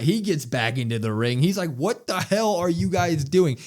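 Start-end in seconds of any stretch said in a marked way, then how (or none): 1.8-3.6 raised-pitch, drawn-out outrage; mock angry yell. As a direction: imitate someone scolding the whole crew. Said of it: "he starts yelling at".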